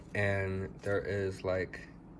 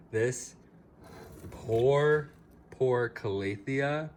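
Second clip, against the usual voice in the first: mock lament; 4 semitones higher, 3 dB louder, slower than usual. Mock lament over neglected plant.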